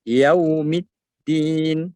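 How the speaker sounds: slow Yaumiddin with rounded lips on yau; rounded waw. Shown as a demonstration. Teacher showing the lip shape for waw. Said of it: "bibir monyong".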